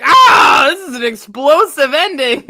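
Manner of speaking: loud, high cranky Muppet heckler shout; Waldorf impression. Mocking Muppet Theater's end, cranky old heckler. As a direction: crow it like the old balcony heckler. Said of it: "Waldorf would be like".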